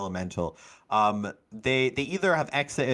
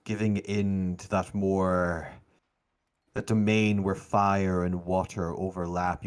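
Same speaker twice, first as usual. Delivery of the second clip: game master narration. A narrator's reading. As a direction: narrate deliberately, letting pauses hang.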